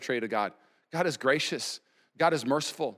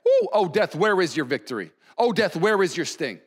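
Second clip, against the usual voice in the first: lively, teasing challenge to death; taunting; 3 semitones higher, 3 dB louder than usual. Acted. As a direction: taunt it like a rival team. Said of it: "taunting death".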